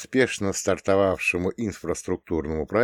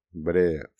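plain reading voice

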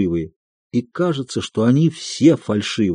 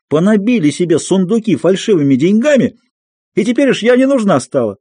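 much higher, screaming accusations; furious shouting; 8 semitones higher than usual. A narrator's reading. Aksinya screaming at the family with the crowd listening, much higher and furious. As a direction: rage at the whole family as thieves. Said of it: "продолжала Аксинья кричать".

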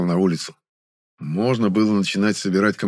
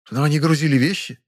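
a disbelieving question, a touch higher; doubtful; 6 semitones higher than usual. Acted. Actress doubting the young man's explanation, disbelieving. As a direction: doubt what he says. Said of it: "недоверчиво покачала головой".

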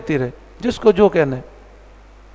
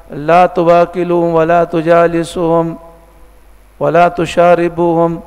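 slow, measured Arabic recitation; hadith recitation; slower than usual. Acted. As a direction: recite the hadith slowly and gravely.

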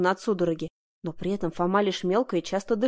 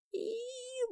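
very high, much softer thin squeal; terrified squeak; 13 dB quieter than usual. A narrator's reading. Heroine squeaking in terror before the bandits. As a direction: let out a tiny frightened squeak. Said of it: "пропищала я".

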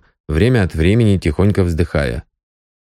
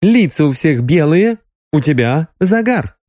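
higher, pointed accusation; Sonya accusing; 8 semitones higher than usual. A narrator's reading. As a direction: pin him down on the tan. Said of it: "сердито сказала Соня". (обвиняющий женский голос, повыше)

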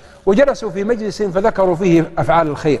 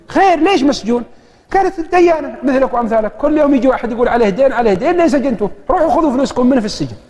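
angry wife; 6 semitones higher than usual. Retold or imitated. Wife scolds the caller angrily.

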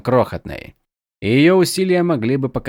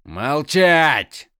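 barked command; 4 semitones higher than usual. Acted. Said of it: "гаркнул лорд-искатель".

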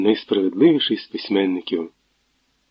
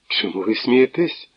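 frightened. Acted. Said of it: "злякано поспитав Твердохліб".

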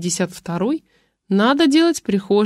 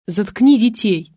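louder, slow angry yell; 2 semitones higher, 4 dB louder, slower than usual. Acted. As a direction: shout it at the wife. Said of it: "заорал Юрий".

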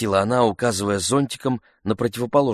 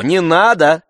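higher, louder no; sharp loud refusal; loud countermand; 10 semitones higher, 10 dB louder, slower than usual. A narrator's reading. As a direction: overrule him to the boatman. Countermanding Oblomov to boatman.

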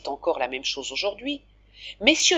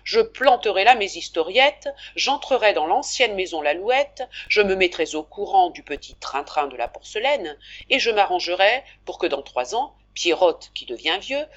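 lightly voiced Pierrotte, louder and hearty; hearty shopkeeper; 3 dB louder than usual. Pierrotte proposing a three-year plan to Daniel, hearty and a touch louder. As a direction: lay out the plan like a confident merchant.

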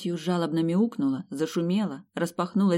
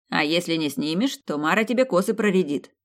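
smirking. Acted. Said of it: "нагло ухмыльнулся".

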